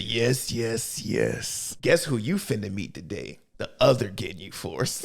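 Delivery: low, soft mock menace; menacing whisper-low. Vegeta threatening Jeice, low soft mock menace. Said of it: "He said".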